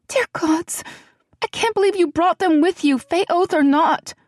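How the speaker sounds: put-on high, hushed and anxious young woman; a nervous friend fretting in a half whisper; frightened young woman. A narrator's reading. Celianne, shaken.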